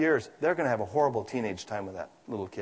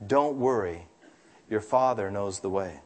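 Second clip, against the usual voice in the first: gentle mother; 6 semitones lower than usual. A narrator's reading. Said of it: "And Mother said gently".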